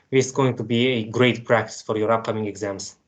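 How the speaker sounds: usual speaking voice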